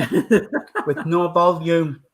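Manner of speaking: slow words through a laugh; drawn-out laughing punchline. Real, not acted. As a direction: chuckle the punchline out slowly. Joking about watching muted.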